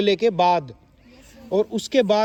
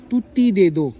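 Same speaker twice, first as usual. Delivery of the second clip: put-on lisping child; 4 dB louder than usual. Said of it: "वो तोतली बोलती है ना थोड़ी".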